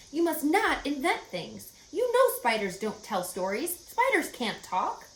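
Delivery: a mildly stern mother scolding; mother telling her daughter off, lightly stern. A narrator's reading. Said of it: "said her mother sternly".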